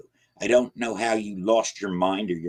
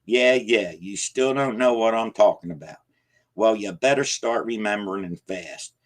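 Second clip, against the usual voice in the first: louder, higher, impatient; old man impatient and alarmed; impatient anger; 4 semitones higher, 4 dB louder than usual. Acted. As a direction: cut him off hard. Jacob cuts him off angrily.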